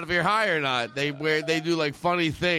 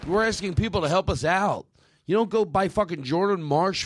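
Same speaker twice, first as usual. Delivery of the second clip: lightly voiced Boston politician; a touch of mock presidential scolding; John F. Kennedy. President telling people not to buy furniture, light Boston impression. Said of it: "John F. Kennedy ... He was like".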